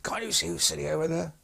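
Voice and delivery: high, outraged demand; mock-furious officer voice; retold apoplectic rage. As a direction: pitch shoots up in indignant fury. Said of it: "almost apoplectic with rage".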